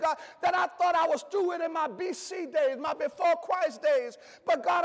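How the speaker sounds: a preacher praying as a weary, broken believer; pleading prayer. Acted. A preacher voicing a weary believer's prayer, pleading. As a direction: pour out the confession to God, half sung.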